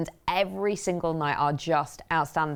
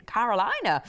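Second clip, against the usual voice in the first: Carolina sung out higher with a long American "lie" in the middle; hint of American accent; 5 semitones higher than usual. Shown as a demonstration. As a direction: slip half into a Southern American accent on Carolina. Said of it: "the accent almost went into it there".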